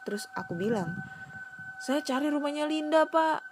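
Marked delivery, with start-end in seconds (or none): 1.8-3.4 put-on scared boy. Asking the old man.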